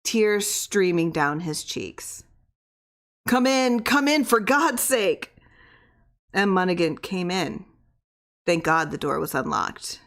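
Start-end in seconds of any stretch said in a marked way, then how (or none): 3.3-5.3 higher, drawn-out begging; mild desperate plea. A narrator's reading. Weak man begs the visitor to come in, mildly desperate. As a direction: call out from weakness. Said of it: "He lay weak and exhausted, panting".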